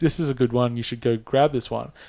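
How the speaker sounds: ordinary talk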